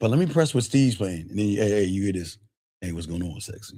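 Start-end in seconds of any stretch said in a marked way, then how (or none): 1.5-3.8 dialed-back, easy, toned-down delivery. Retelling own greeting to her: imitating own toned-down voice. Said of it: "I tone that shit down".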